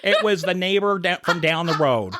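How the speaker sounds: hammed-up true-crime narrator, giggling; true crime podcast voice. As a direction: play the stunned podcast witness. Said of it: "What is this voice you're doing?".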